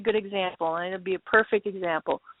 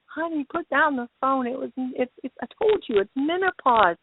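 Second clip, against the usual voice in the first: dad's voice; 3 semitones higher than usual. Retold or imitated. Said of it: "her dad in the background".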